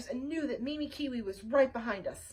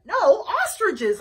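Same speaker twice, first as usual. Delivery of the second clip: slow confused correction; 7 semitones higher, 12 dB louder, much slower than usual. Acted. Flytrap misunderstands, slow confused.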